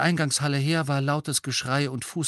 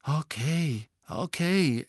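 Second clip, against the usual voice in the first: gedehntes, abwehrendes Okay; genervt; 4 semitones higher, much slower than usual. A narrator's reading. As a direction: verwirrt und genervt einlenken. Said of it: "ernstlich verwirrt und genervt dazu". (verwirrt, genervt)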